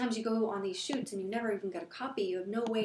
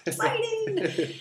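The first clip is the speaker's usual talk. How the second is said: mock excitement; 12 semitones higher, 6 dB louder, much slower than usual. Mock thrill at grocery trip.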